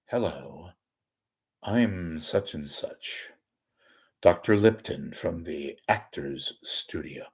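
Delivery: slow, measured interview-show host impression; Doctor Lipton. Host introducing himself on Actors Studio, slow Lipton impression. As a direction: introduce yourself with slow, drawn-out formality. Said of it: "he used to talk like this".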